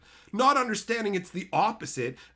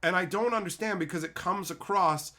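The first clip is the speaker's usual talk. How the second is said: even, slightly lowered, reasoning voice; calm asking. Retold or imitated. Asking a commenter to explain his position, calm. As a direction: explain and ask without any insult. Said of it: "Just calmly asking this guy".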